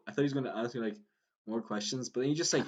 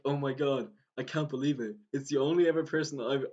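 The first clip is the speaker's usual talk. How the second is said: mildly raised, gushing mock disbelief; imitating happy fan; 4 semitones higher, 4 dB louder than usual. Cyclist meets a supposed fellow fan, imitated happy disbelief. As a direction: play a stranger who can't believe his luck. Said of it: "he looked so happy".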